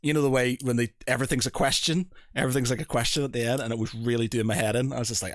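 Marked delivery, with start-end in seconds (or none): 1.1-3.6 rising tune on "question", as if asking; questioning uptalk. Retold or imitated. Mimicking an audiobook narrator's habit, questioning uptalk. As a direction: end "question" on an upward lilt. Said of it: "it was robotic American sort of".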